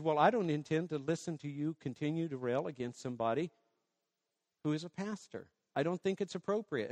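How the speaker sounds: soft quiet firm request; calm but firm, keep it hushed; gentle rebuke. Retold or imitated. Pastor privately telling a woman to stop, quiet and firm. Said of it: "So I just said".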